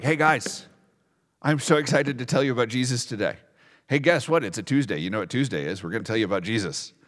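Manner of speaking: quick, chirpy imitation with a big grin; mock-eager and chatty, tumbling along fast; grinning like Fauzi. Preacher imagining Paul cheerily greeting his guards, playfully excited. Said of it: "probably like Fauzi with the big grin".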